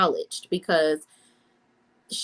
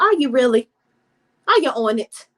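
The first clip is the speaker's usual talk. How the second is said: sarcastic doubt; 4 semitones higher, 5 dB louder than usual. Retold or imitated. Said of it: "And I'm like".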